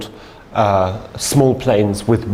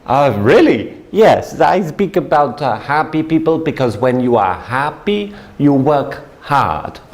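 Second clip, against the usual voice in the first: put-on light Italian accent, eager; lightly accented, earnest broken English; Italian businessman; 3 semitones higher than usual. Salesman explaining happy workers to his seatmate, light Italian accent. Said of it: "he says".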